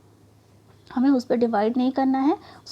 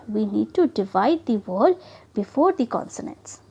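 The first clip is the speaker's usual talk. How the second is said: slow rule reading; 2 semitones lower, much slower than usual. Shown as a demonstration. Teacher reading a spelling rule to the class, very slowly. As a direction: read the rule very slowly and deliberately. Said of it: "reading rule slowly".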